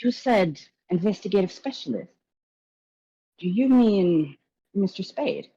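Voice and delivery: high, gushing showman's voice; flamboyant host. Acted. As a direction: greet the guests like a theatrical charmer. Gallagher discusses Mister Spade.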